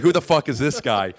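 loud mock disbelief; retold appalled reaction; imitated disgust. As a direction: voice the creeped-out onlookers. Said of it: "giving the worst looks about me".

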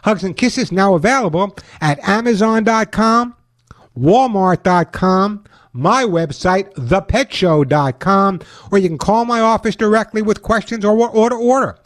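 upbeat radio ad read; chipper 1950s ad. Acted. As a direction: sell it like an old-time pitchman. Host reads his own ad.

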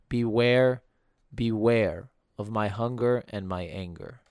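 measured, solemn recitation of a poem; sing-song poem reading. Acted. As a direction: read it like a radio voice. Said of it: "my silvery sing-song voice".

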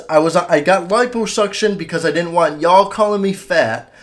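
toned-down impression, quoting word for word; quote of a rapper. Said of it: "that's word for word what he says".

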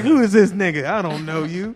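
high, loud imitation of someone snubbing a caller; mock disbelief. Imitating the friend who ignored the message, loudly incredulous. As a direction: exclaim it as a hammed-up brush-off. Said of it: "he's like".

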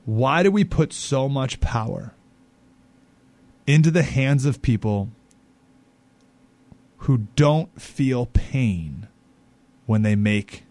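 very slow, drawn out, long pauses, dropping at the end; slow rhetorical question. Real, not acted. Host posing the big question to listeners, very slow. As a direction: let the question hang, slowly.

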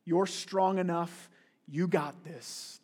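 whisper-calm comfort, slowly; gentle self-help comfort; soft reassurance. Retold or imitated. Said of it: "a quote from a popular author".

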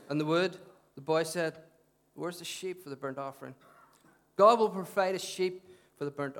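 measured public Bible reading, spaced phrases; scripture reading. Real, not acted. Preacher reads Abraham's testing to the congregation, measured scripture reading.

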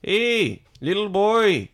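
botched Mexican accent. Shown as a demonstration. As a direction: holler in an unconvincing Mexican accent. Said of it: "sounded like you were slow and from Montana".

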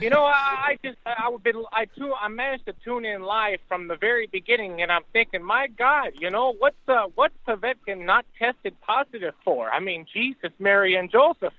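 caller on a speakerphone line; tinny speakerphone call audio; phone speaker. Real, not acted. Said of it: "I got you on speakerphone".

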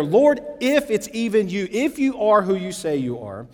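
sceptical challenge, leaning on the ifs; doubting. Acted. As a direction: test whether it is really him. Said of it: "the doubt in his voice".

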